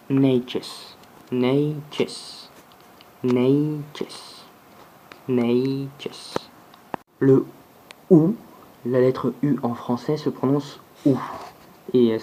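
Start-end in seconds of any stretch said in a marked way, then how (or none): 0.1-6.3 Neiches with a clear final s; plural demo. Shown as a demonstration. Teacher drilling the plural, repeated demo. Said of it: "Son pluriel est".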